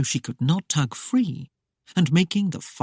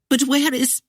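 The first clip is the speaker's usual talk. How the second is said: higher female voice, startled; Claudia voiced; 9 semitones higher, 3 dB louder than usual. A narrator's reading. Claudia cut short by shock, higher startled voice. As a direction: break off in startled confusion.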